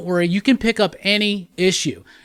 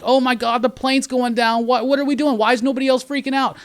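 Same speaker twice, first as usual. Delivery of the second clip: mock panic; 5 semitones higher than usual. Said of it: "He's freaking out".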